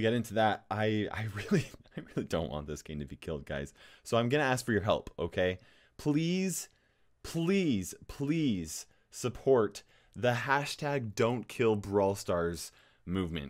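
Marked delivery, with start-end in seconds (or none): 6.0-13.5 pleading. Real, not acted. Begging viewers to support hashtag.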